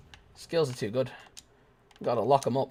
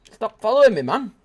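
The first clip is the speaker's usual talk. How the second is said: high yelp; 9 semitones higher, 7 dB louder than usual. Acted.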